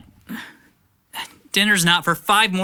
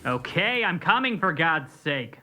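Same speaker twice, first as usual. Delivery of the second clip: far-off annoyed reply; distant; 7 dB quieter, slower than usual. Acted. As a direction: answer from another room, irritated. Annoyed teen answers from afar.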